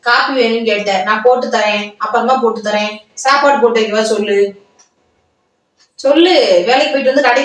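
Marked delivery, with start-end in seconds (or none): 6.0-6.3 insistent demand. Acted. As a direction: repeat it sharper with a lifted ending. Wife pressing husband to answer.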